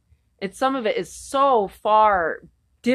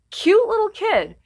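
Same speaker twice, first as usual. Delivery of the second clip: put-on cute kid voice; 11 semitones higher than usual. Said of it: "'cause they thought".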